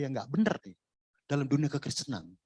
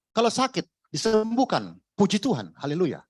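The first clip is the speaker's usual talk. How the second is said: loud mock jubilation over easy blessings; loud, sarcastic hallelujah chant; mock pious cheer; 2 semitones higher, 4 dB louder than usual. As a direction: parrot the happy-clappy preacher, hammed up. Mocking shallow pious preaching.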